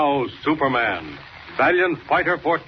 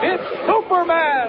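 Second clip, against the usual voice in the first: high, ringing announcement; triumphant call-out. Acted. Announcer reveals the hero, triumphant call. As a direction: proclaim the hero's name. Radio serial opening call-out.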